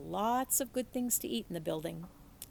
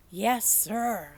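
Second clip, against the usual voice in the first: loud answering yell; yelled back; 8 dB louder than usual. A narrator's reading. Opal answers the preacher, loud yell back. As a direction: shout it back across the room. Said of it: "I yelled back".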